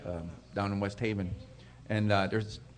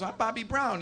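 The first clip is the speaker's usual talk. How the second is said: soft, slightly raised-pitch retold introduction; understated introduction; 4 semitones higher, 6 dB quieter than usual. Bobby introduces himself to the guy cooking chicken, understated.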